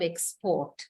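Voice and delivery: "export" with weight on PORT; light EX, stressed PORT in "export"; verb stress on second syllable. Shown as a demonstration. Teacher recalls the verb example, second-syllable stress on "export". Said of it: "second syllable is stressed".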